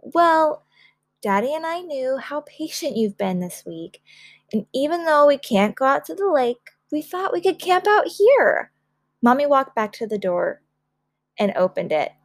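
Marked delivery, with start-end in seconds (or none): 0.0-8.7 high, lilting mother, rising to the end; excited reveal. Acted. Mother revealing the camping surprise, high and excited. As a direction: build up to a happy surprise.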